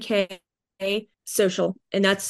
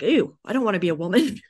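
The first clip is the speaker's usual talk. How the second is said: husband's disgusted shout; faster than usual. Retold or imitated. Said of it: "even my husband's like".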